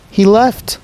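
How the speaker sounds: put-on high, loud little girl in alarm; panicked child. Little sister tells her brother the driver left, panicked. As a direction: cry it out like a scared kid.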